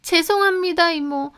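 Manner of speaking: high-pitched, sinking apology; contrite apology. A narrator's reading. Housekeeper apologises to older woman, contrite. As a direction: apologise meekly, trailing off.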